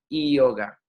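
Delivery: "yoga" with a gliding ee-oga onset; subtle Sanskrit Y. Shown as a demonstration. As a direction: ease into "yoga" on an i vowel. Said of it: "Es sutil".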